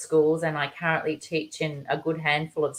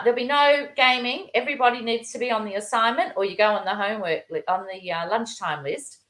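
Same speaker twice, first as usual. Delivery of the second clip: mock shout; 6 semitones higher than usual. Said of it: "shout at them and say".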